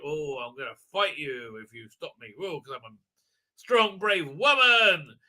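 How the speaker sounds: hammed-up bravado; mock brave heroine. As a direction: imitate a heroine declaring herself. Mocks the heroine's defiance.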